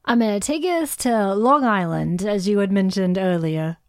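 badly faked Long Island accent. Co-host introducing a Long Island pick, in a poor Long Island accent. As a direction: attempt a Long Island accent, none too well. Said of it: "That was my Long Island accent".

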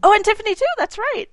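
loud, high, realizing oh; sudden remembering. Real, not acted. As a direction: blurt it out as it comes back.

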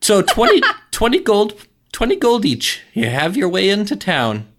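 high goblin haggling; high, chuckling goblin toll-taker. Acted.

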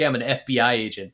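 British actor attempting an American accent; understated take on a wobbly American accent; shifting British-American accent. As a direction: imitate a Brit's uneven American accent, fairly restrained. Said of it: "every line seems to be delivered from a diff".

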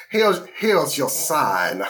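slow Southern drawled catchphrase; put-on Southern drawl; mock Southern accent. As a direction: drawl the tag like a Southern comic.

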